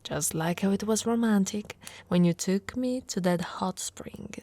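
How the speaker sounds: dreamy hushed recollection; intimate whisper. Acted. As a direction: whisper the memory close to his ear. Recalling romantic hot spring trip.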